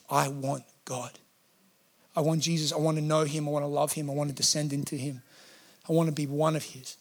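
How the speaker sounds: hushed, earnest devotion; heartfelt yearning. Retold or imitated. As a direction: confess it softly, like a private prayer. Voicing worshippers' yearning for God.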